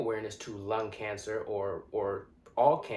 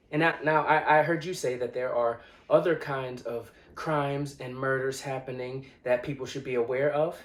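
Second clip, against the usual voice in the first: louder, forceful condemnation; impassioned indictment; 3 semitones higher, 5 dB louder than usual. Acted. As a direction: lay it out with rising force. Impassioned speech confronting police killings.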